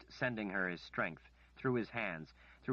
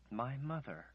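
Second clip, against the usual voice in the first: sobbing; 5 semitones higher than usual. A narrator's reading. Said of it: "she sobbed".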